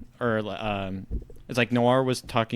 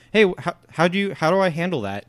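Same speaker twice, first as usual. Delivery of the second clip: quick, higher-pitched eager question; genuinely inquisitive; 7 semitones higher, 5 dB louder, faster than usual. Retold or imitated. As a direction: ask in a rush, imitating sincere curiosity. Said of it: "totally inquisitive and, like, genuine and nice".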